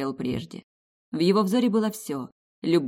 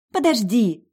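grumbled; 6 semitones higher, 6 dB louder, slower than usual. Acted. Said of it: "буркнула Катя".

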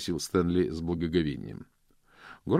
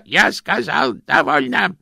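louder, stern cutoff; firm stop; 13 dB louder than usual. Acted. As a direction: shut the boy up at once. Grosh cuts Stanley off. (Грош твёрдо обрывает Стэнли)

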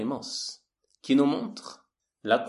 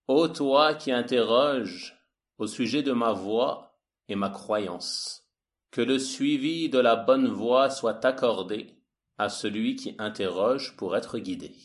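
slow, measured verse reading; poem translation reading. Acted. Lecturer translating the poet's address to the questioner, slow formal reading. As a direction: read out the verse slowly and solemnly.

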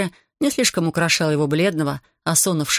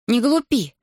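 annoyed; 7 semitones higher, slower than usual. A narrator's reading. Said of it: "рассердилась Берута".

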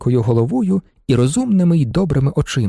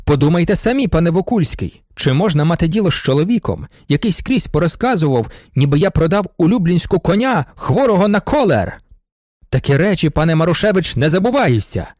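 a bit louder, building indignant rant; shouting ever louder; 2 semitones higher than usual. Acted. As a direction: work yourself up as the grudge grows. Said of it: "кричав він усе голосніше".

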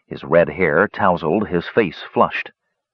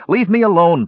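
high, louder protest; sharply raised, indignant cry; 10 semitones higher, 5 dB louder than usual. A narrator's reading. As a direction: cry out to be let go. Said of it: "Palin cried".

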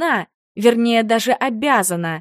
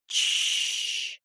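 soft whispered hush; wife hushing her angry husband; shushing; 9 dB quieter than usual. Acted. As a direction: hush him gently, barely breathed. Wife hushes raging husband.

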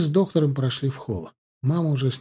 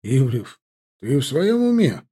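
surprised exclamation; 3 dB louder than usual. A narrator's reading. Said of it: "удивлённо воскликнул доктор".

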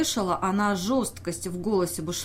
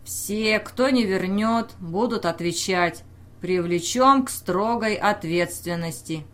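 threat. Acted. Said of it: "пригрозил".

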